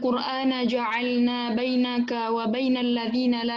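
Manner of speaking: lambat, dilantunkan seperti tilawah; Quran recitation. Acted. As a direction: lantunkan ayat dengan pelan. (membaca ayat bernada tilawah)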